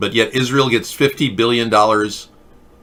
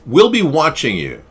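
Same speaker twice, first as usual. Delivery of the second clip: Greta impression; 4 semitones higher than usual. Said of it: "working on my Greta impersonation".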